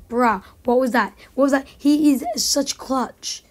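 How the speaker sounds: loud outraged yell; raging gamer. Real, not acted. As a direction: yell it out, fed up.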